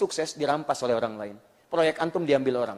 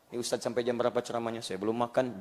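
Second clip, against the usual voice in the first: muttered hungry complaint, fast; mock whiny listener; 5 semitones lower, 7 dB quieter, faster than usual. Preacher voicing a hungry listener, mock grumble.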